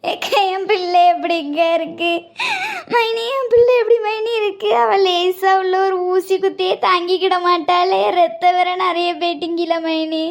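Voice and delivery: put-on keening over her hurt child; crying wail; tearful lament. Mother wailing over child.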